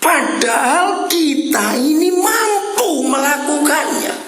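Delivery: high, slow, ringing preacher's cry; preaching shout. Real, not acted. Preacher urging the congregation, slow ringing shout. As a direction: drive it home to the congregation. Preacher stressing people are able.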